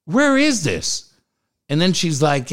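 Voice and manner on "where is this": high, startled outburst at the news; shocked disbelief. Retold or imitated. Shocked on hearing of snow near his route. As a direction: blurt it out in alarm, voice jumping up. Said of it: "I'm like".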